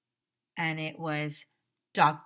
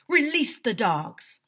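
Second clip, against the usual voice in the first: slow, louder command; villain calling to his goons, slow and louder; shouted order; 5 semitones higher, 7 dB louder, slower than usual. A narrator's reading. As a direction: drag the order out. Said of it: "shouted Doctor Carbles".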